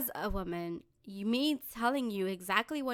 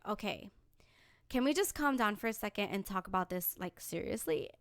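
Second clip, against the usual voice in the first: soft, measured plea; calm and collected; 6 dB quieter than usual. Acted. Speaker pleading with arguing friend, calm and collected. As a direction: drop down to reason with them. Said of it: "be calm and collected".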